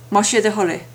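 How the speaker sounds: Má sé de thoil é run together quickly as one word. Shown as a demonstration. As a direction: clip it into the quick everyday form. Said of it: "Said quickly as".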